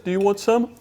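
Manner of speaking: posh gentleman. Pretend. Gentleman role-play dialogue.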